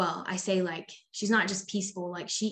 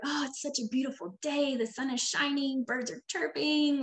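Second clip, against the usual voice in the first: higher, fast, dreamy sing-song; blissful sing-song; 6 semitones higher than usual. Retold or imitated. Mother parodying her own peaceful mood, higher breezy sing-song. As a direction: gush about the lovely day, lilting.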